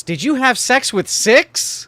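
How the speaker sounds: lightly put-on questioning voice; voicing Six's thoughts.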